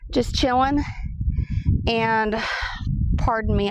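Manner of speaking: gasping between phrases; winded, breathy pauses; out of breath. Real, not acted. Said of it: "I'm out of breath because it's so hot".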